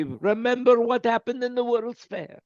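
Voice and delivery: a hint of a hypnotist's voice; mock hypnotist. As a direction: playfully put his friend under. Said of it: "Hypnosis would be a good thing right now".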